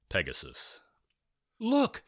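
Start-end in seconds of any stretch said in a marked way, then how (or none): 1.6-2.0 high, loud shout. Acted. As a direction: yell it to the others. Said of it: "Georgia shouted".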